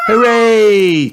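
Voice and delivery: very high, loud cheer; long, high piglet whoop. A narrator's reading. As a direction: squeal hooray like thrilled children. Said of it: "cheered Peppa and George".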